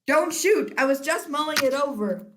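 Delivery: high, loud frightened cry; scared don't shoot; panicked plea. Acted. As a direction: cower and beg. Director afraid again.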